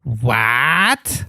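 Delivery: low, gruff Stone Cold What; Stone Cold impression. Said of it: "is that your best Stone Cold?".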